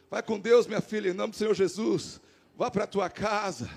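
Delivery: gentle blessing. Retold or imitated. Retold blessing of a troubled woman.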